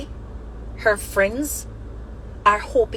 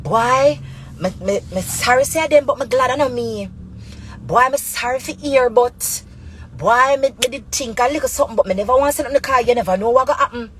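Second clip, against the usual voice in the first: imitated bystander reaction; 3 semitones higher, 3 dB louder than usual. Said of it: "When you watch a news story, them and you say".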